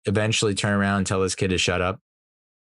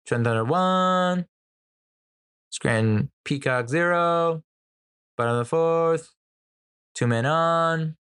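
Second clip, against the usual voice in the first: high, slow, drawn-out ballpark announcer call; kid announcer yell; 9 semitones higher, slower than usual. Retold or imitated. Kid in the stands announcing before every pitch, high slow call. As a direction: belt it out like a kid playing stadium announcer. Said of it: "he's yelling it".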